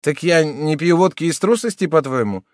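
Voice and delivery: put-on insulted drunk protesting his courage; indignant exclamation. A narrator's reading. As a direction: fire back, stung. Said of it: "воскликнул несчастный".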